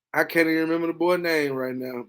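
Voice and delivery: usual speaking voice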